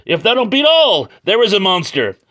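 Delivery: lightly voiced yokel amazement; high surprised voice. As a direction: squeak it out, half amazed. Character finally sees the monster.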